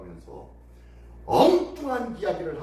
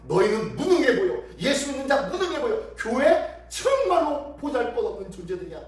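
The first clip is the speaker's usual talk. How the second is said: raised, forceful acted derision; derisive sneering; 5 semitones higher than usual. The world derides powerless church, forceful sneering. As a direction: deride believers as helpless and worthless. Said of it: "세상이 예수 믿는 자를 향하여 조소하는 것과".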